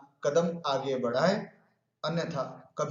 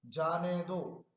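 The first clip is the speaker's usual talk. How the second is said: "जाने दो" set apart after a pause, slow and softer; separate second phrase; 6 dB quieter, much slower than usual. Shown as a demonstration. Teacher showing students a shift in meaning, जाने दो set apart. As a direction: let जाने दो fall away slowly on its own.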